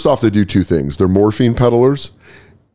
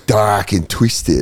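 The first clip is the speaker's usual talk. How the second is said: put-on slow Australian accent, "Dak" falling; much slower than usual. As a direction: say "Dak and Twisted" slowly like an Aussie. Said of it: "in the Australian accent".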